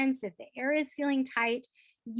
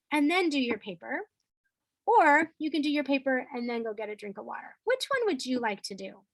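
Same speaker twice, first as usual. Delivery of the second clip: friendly offer; 2 semitones higher than usual. Shown as a demonstration. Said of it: "Or I could say".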